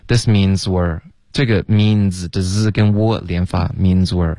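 "means we're" with z running straight into "we're"; linked pronunciation. Shown as a demonstration. Teacher showing students how to link "means we're", linked pronunciation. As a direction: join "means we're" as one smooth unit.

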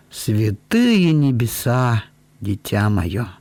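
ordinary delivery, nothing marked

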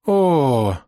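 high choked cry before fainting; a strangled hysterical gasp. A narrator's reading. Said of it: "странный истеричный задыхающийся крик". (истеричный задыхающийся вскрик)

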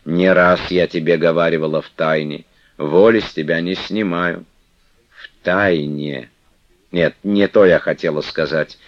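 выше и громче, уговаривая; матушка ласково убеждает; ласковая игуменья. Acted. Манефа отпускает Флёнушку. (Манефа уговаривает Флёнушку остаться, ласково)

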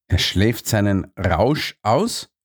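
slow, disbelieving question rising on "aus"; incredulous. Acted. Watson repeats the guard's words, incredulous. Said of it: "fragte ich ungläubig".

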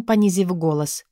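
plain reading voice

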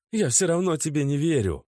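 high, firm denial; girlfriend refusing. A narrator's reading. Natasha refuses to believe Oleg. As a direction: push back.

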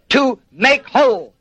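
"make" picked out with deliberate weight; measured emphasis on "make"; stress on make. Shown as a demonstration. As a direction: spell out "to make whole" word by word, leaning on "make". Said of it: "And the emphasis, as I say, is on".

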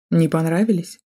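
a light smirk in the voice. A narrator's reading. Man smirking at frightened woman, mild mocking smirk. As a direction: sneer it out, faintly amused. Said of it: "ухмыльнулся он".

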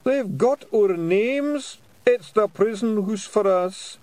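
giving up all hope of escape; despairing wail. A narrator's reading. Woolly despairs.

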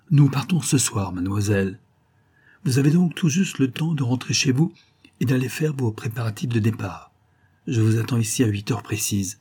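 a soothing aristocrat with a lift in the voice; lightly voiced suave viscount.

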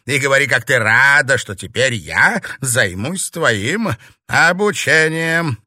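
loud, high, overbearing order; imperious witch mistress; domineering demand. Acted. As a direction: force gratitude out of the novice, slowing at the end. Witch demands grovelling from novice.

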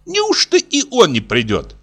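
a hint of an offended old lady; old matron complaining of ingratitude; old woman voice.

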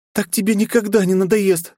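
high, panicked protest; mock panic, quick and high; high flustered alarm; panicking. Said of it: "запаниковала княжна".

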